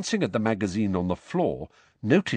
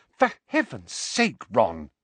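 exasperated; slower than usual. Acted. Hermione exasperated at Ron.

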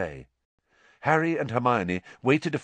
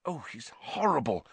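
hushed, softer aside; whispered disgust; 4 semitones higher, 6 dB quieter than usual. A narrator's reading. Hermione hides from Peeves, whispering. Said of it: "whispered Hermione".

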